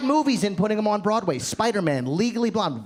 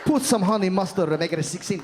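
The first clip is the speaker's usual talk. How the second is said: mock-seductive Puerto Rican accent; sexy Puerto Rican accent. Woman finishes her Subway order, sexy Puerto Rican accent. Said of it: "made ordering a Subway sandwich sound hot".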